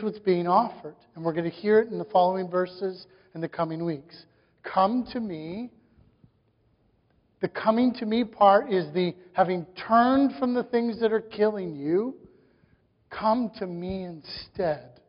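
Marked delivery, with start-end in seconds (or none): 4.6-5.7 slow, gently measured invitation; unhurried and tender, lightly voiced; kind, clear invitation. Preacher quoting Jesus's offer to the burdened, kindly. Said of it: "the kindness of His clarity". 13.1-15.0 slow and softer, tenderly; kind, clear invitation. Acted. Preacher voicing Jesus calling people from sin, kindly. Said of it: "the kindness of His clarity".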